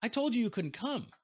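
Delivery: high, loud indignant surprise; shocked and annoyed. Retold or imitated. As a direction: she spots him where he shouldn't be. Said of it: "she realizes".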